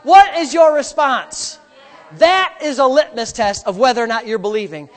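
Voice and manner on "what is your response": slow, louder pointed question; forceful challenge. Real, not acted. Pastor presses the congregation, slow and louder. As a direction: demand an answer from the pews.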